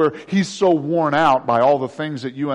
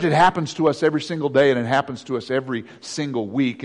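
ordinary delivery

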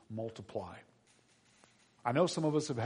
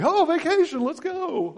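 much higher, louder, gleeful squeal; excited kids; 15 dB louder than usual. Retold or imitated. Grown kids greeting tired dad, gleeful high squeal. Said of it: "and they're like".

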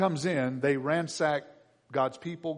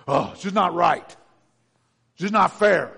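whiny moping; 8 dB louder, slower than usual. Retold or imitated. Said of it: "It may sound a little different".

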